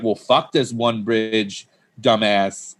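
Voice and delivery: slow, mocking jab at the town; slow teasing put-down; mock insult. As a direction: drawl it out as a playful insult. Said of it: "flipped the switch and was like".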